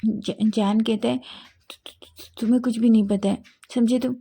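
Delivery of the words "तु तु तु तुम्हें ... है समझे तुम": flustered stammer. A narrator's reading. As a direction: caught out, stumbling into a quick defensive reply. Caught sneaking, stammers back defensively.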